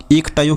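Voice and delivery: इष्टयो with a k or kh sound in place of ष; variant pronunciation. Shown as a demonstration. Teacher questions a reading to students, इष्टयो said as "ikh-tayo". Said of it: "इस स को तो ख बोलता".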